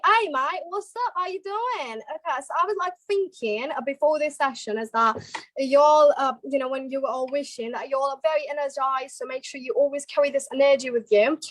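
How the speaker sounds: Cockney English chat; Cockney-accented pep talk. Shown as a demonstration. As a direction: greet mates in a Cockney accent. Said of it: "And then Courtney".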